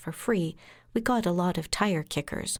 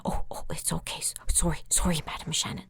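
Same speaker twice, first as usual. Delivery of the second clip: hushed, unvoiced sorry; soft whispered apology; 3 semitones lower, faster than usual. Big client whispering an apology to his lawyer. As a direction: whisper it meekly. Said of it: "He went".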